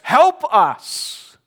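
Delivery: high, loud panicked yell; panicking out of their minds; yelling for help. Retold or imitated. Disciples yelling at once in the storm, high and loud. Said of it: "all of the disciples were yelling".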